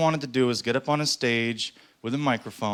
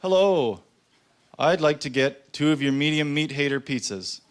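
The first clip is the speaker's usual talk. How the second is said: prank caller voice; 3 semitones higher than usual. Retold or imitated. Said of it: "I'll say".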